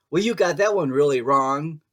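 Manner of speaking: high, loud mock complaint; mocking commenter. Reader imitating a negative comment left for her, mocking. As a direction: whine it like a nitpicking critic. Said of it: "it'll be something like".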